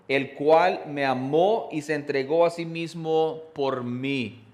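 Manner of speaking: amó drawn out slowly and stressed; slow emphatic reading. Shown as a demonstration. Pastor slowly reading Christ's love, amó stressed. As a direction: linger on each word, landing on amó. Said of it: "específicamente en esto dice".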